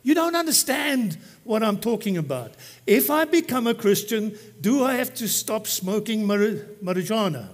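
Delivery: put-on insistent young man. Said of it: "The young man responded back".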